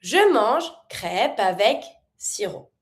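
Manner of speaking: Je mange crêpe avec sirop read slowly, words linked; teacher models linked French. Shown as a demonstration. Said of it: "Try to make every link as possible".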